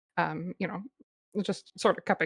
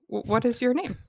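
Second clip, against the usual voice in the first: usual speaking voice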